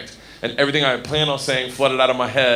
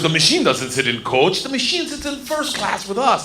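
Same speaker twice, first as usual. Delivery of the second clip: put-on Russian accent rising to insistence; Russian gangster; 3 semitones higher than usual. Big gangster claiming his new pal for first class, Russian accent. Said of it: "He grabs me and he goes".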